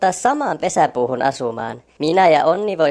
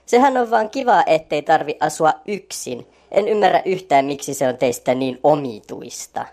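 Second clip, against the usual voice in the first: louder, irritated character voice; getting heated; 2 semitones lower, 5 dB louder than usual. A narrator's reading. Lenni argues with Onni and Orvokki, getting heated. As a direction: defend his family, getting worked up. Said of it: "Lennikin alkaa jo hiiltyä".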